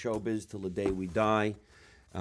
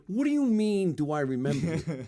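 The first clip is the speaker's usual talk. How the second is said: excited greeting; 6 semitones higher than usual. Retold or imitated. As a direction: imitate a friend overjoyed to see you. Retold friend's excited greeting.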